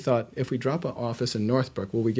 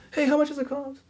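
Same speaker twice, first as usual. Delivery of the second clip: high, raised call to the back; calling out across office; 14 semitones higher than usual. Retold or imitated. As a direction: shout the question to a coworker. Receptionist calls to coworker.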